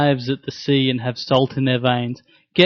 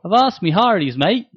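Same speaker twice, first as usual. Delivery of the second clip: Australian pirate; 4 semitones higher than usual. Pretend. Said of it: "Australian pirate".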